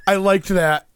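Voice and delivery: teasing impression of a fretting man; mock worried confession. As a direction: act out his worried realization, hammed up. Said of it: "He's so worried that he's gonna be like".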